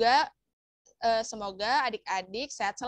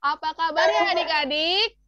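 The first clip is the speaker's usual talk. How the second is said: enthusiastic greeting; 3 semitones higher, 5 dB louder than usual. Shown as a demonstration. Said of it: "Mau tes dulu semangatnya".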